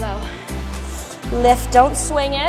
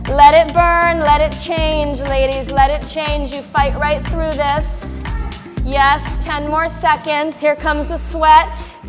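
halftime pep speech; 3 semitones higher, 6 dB louder, slower than usual. Real, not acted. Instructor urging class on.

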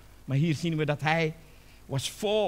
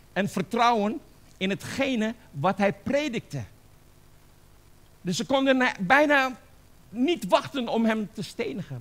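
higher, emphatic preaching; bevlogen preek; 6 semitones higher, 4 dB louder than usual. Real, not acted. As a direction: preach it with rising force. (bevlogen preken, met nadruk)

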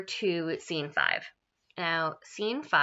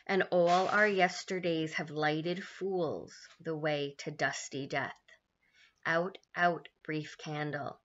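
slow, measured Shakespeare verse; slow mournful recital; soliloquy recitation; slower than usual. Acted. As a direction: weigh every word of the speech.

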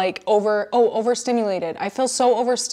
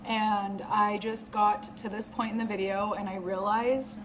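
quiet voiceover; 10 dB quieter than usual. Real, not acted. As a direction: talk softly as if others are asleep. Quiet late-night editing voiceover.

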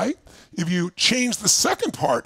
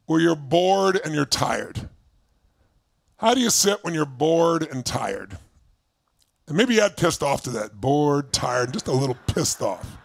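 lower, slow, drained delivery; bored and tired; 6 semitones lower than usual. Shown as a demonstration. Coach modeling a bored, tired state, slow and low. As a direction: sink into boredom as you speak. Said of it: "Put yourself in a state".

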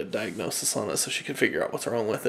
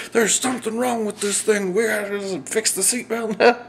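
high, loud exasperated complaint; hammed-up angry griping, pitched way up; mock mad; 10 semitones higher, 4 dB louder than usual. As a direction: imitate someone getting worked up and fed up. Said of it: "she's getting all mad".

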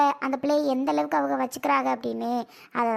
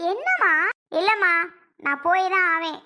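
defiant insistence; 3 semitones higher than usual. Acted. Daughter insists on going.

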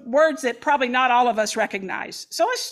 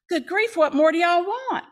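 exasperated, higher-pitched sarcastic retort; sarcastic God; 6 semitones higher than usual. Shown as a demonstration. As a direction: fling it back with a wrong, sarcastic edge.

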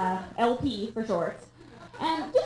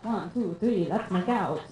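hammed-up Sesame Street vampire accent; the Count's accent; 3 semitones lower than usual. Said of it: "when I make the accent".

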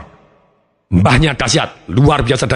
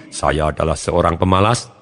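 lower slow self-label; 8 semitones lower, 3 dB quieter, slower than usual. Acted. Demonstrates a negative self-label.

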